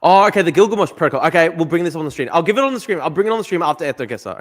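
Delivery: loud, high-pitched burst of understanding; sudden realisation. Real, not acted. Streamer finally understanding the viewers' request, animated. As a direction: pipe up loudly as it finally clicks. Finally learns what chat means.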